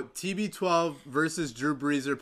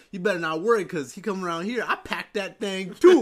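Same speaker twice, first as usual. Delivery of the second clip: dubbed meme voice; 3 semitones higher, 4 dB louder than usual. Retold or imitated. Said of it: "He goes".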